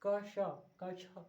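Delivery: very slow, each sound apart: क श, क छ; slowly, sound by sound. Shown as a demonstration. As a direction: break क श and क छ into separate sounds, slowly. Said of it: "आराम से बोलेंगे तो क श".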